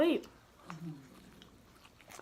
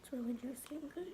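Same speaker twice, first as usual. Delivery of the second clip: whispering; 2 semitones higher, 7 dB quieter than usual. Real, not acted. Whispered food comment.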